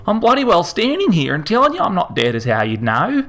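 put-on indignant old bloke. A narrator's reading. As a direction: insist hotly that he's alive. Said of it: "Harold say indignantly".

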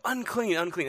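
high-pitched call at ordinary volume; mock yell. Leper announcing himself wherever he goes, restrained mock yell. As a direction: imitate a yelled warning without much force, falling off. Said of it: "they have to yell".

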